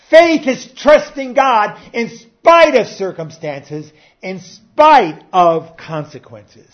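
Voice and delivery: preacher driving the quote home; emphatic preaching. Acted. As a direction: pound out every word.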